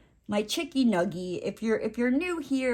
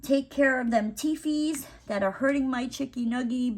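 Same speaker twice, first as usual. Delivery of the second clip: put-on baby talk; 5 semitones higher than usual. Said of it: "So I'm like".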